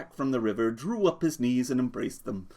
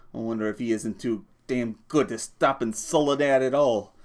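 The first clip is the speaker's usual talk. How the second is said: griping; 3 semitones higher, 4 dB louder than usual. Acted. George griping about bus driver.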